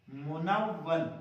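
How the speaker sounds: منون said very slowly, syllable by syllable; slow word demo. Shown as a demonstration. Teacher naming the term for the children, very slowly. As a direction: stretch out منون. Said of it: "یہ تا منون ہے".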